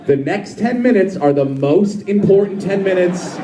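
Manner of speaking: lightly effeminate pep talk to oneself; rally yourself with a hint of effeminate sass; a touch of effeminate urgency; effeminate inner voice. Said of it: "I speak to myself in the effeminate".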